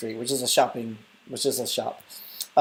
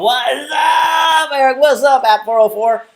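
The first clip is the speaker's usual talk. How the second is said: mock shout greeting; 10 semitones higher, 8 dB louder, slower than usual.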